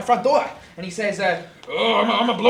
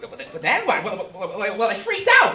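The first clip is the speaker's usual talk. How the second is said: loud, high, stammering; agitated, raised-voice testimony; worked-up pig witness; 5 semitones higher, 9 dB louder, faster than usual. Acted. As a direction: blurt it out, stumbling on repeated words. Pig recounts freaking out.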